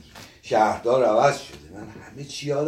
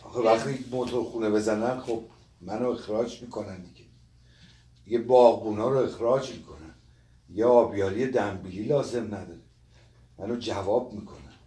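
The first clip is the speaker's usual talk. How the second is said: understated tearful complaint; quiet crying. Acted. Old gardener under the blanket fears dismissal, mildly tearful. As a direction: fret softly, a touch weepy.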